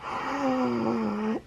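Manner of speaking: long, soft gasp of delight; awed gasp. Real, not acted. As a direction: draw in a soft, amazed breath. Gasp at a pretty gift.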